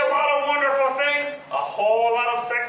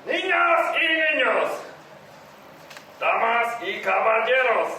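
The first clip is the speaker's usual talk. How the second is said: lucha libre announcer. Acted. Opening a comedy show.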